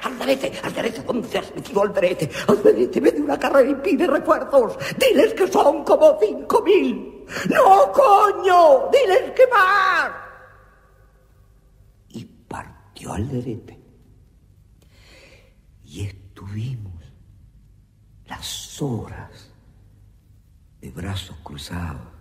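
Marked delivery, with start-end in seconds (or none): 0.0-10.1 orden frenética de retirada. Acted. Arce ordena pedir refuerzos, frenético. 15.8-22.1 narración susurrada. A narrator's reading.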